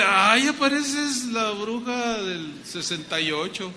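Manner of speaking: slow teasing jab; lightly voiced mocking husband; mock teasing insult. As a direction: drag it out like a cheeky insult. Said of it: "A decirle".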